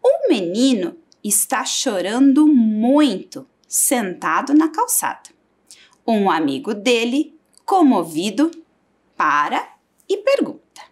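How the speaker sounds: reading the text aloud to the class; teacher reading a short text. Shown as a demonstration. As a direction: read it like a story for children. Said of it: "Então, vamos ler".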